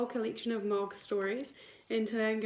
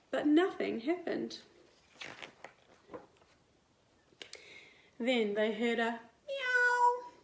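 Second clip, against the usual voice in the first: lively picture-book read-aloud; reading to children; 3 dB louder than usual. A narrator's reading. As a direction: read it like storytime for little kids. Teacher reads picture book to class.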